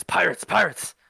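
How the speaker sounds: high, loud, terrified cry of alarm; panicked warning. Acted. Wounded villager warns the party about pirates, terrified shouting. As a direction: scream the warning like your town is burning. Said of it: "He goes".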